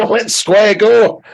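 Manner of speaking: put-on Glasgow street accent. Mock Scottish brawl banter.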